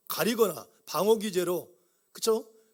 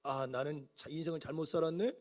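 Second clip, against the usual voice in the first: self-pitying sigh; 4 dB quieter than usual. Retold or imitated. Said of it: "열등감에 빠지고".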